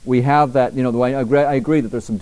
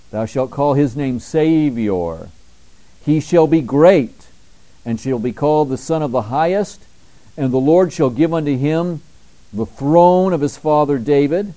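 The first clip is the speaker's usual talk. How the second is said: preached scripture; 2 semitones higher than usual. Acted. Preaching scripture slowly, loud.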